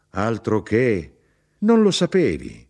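high, loud indignant exclamation; boasting, almost scolding; proud outburst. A narrator's reading. Mother astonished her son doesn't know, proud outburst.

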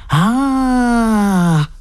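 long, high "ah" of relief; sigh of relief. A narrator's reading. Scullery boy learns he needn't eat it, sighing with relief. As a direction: let out a big relieved "ah". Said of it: "tirando un gran respiro di sollievo".

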